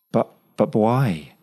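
faltering as if short of air; unreal, breathless. A narrator's reading. Claire, stunned by his embrace, breathless and unreal. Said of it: "Claire's voice came unreal, breathless".

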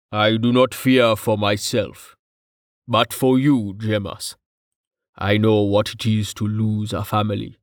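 measured, level-toned solemn figure; lightly voiced stoic rumbler; grave, steady companion. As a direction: stand by him, evenly and gravely. Voices Tallheart's grave sympathy.

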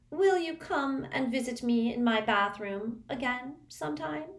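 high, mournful plea. Acted. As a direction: ask it longingly and sadly. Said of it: "Moaning Myrtle asked mournfully".

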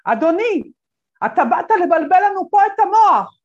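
loud, high outraged yell; old lady shouting at the lecturer, loud and high; retold shout. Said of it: "והיא צועקת עליי".

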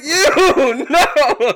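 high laughing mock yelp; hammed-up indignant comedian; imitating comedian. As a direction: squeal the no up high. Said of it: "and he was like".

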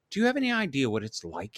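fast, tense hissed question. Acted. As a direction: hiss it at him. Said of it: "he hissed".

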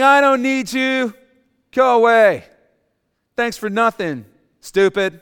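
loud, high, scornful outburst; contemptuous cursing. Pretend. Ungrateful hostage cursing the preacher's son, loud and scornful. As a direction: spit out the rejection. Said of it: "Start saying".

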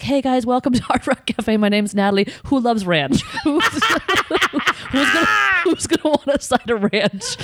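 upbeat laughing waitress pitch; peppy server greeting. Retold or imitated. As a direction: hype the table up, laughing. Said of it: "I would be like".

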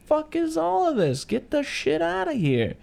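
high, slow, squeaky mock outrage; hammed-up squeal of disbelief; outraged Dean. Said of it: "Dean is like".

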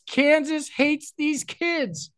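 high mock voice. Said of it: "my note was".

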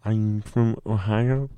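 slow, put-on proud Ohioan; mock proud local. Imitating a proud Ohioan, slow and hammed-up. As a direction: say it slowly, swelling with pride.

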